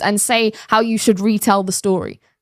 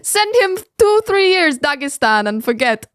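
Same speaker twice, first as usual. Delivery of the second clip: lightly voiced gangster catchphrase; quoted tough guy; 5 semitones higher than usual. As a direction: quote it like a tough guy's famous line. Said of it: "the guy who says".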